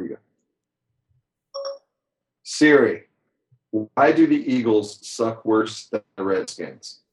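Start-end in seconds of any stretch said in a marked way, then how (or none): 2.4-7.0 talking to Siri. Shown as a demonstration. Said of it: "Let's ask it".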